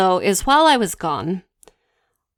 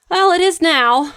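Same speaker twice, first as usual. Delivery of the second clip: mock ominous husband; 11 semitones higher, 5 dB louder than usual. Husband's ominous reply on phone.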